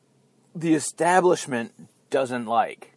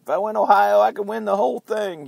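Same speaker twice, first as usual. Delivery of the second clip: a lightly put-on politician's voice, higher and louder; Clinton voice; 5 semitones higher, 4 dB louder than usual. Kasich's line voiced in a hint of a Clinton impression. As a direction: play a campaign boast with mock swagger. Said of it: "I'm using the Clinton voice for Kasich".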